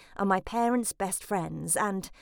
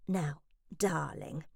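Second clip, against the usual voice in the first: softer, slower hissed warning; 4 semitones lower, 6 dB quieter, slower than usual. Acted. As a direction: drop the voice to a sudden hiss. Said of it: "she suddenly hissed".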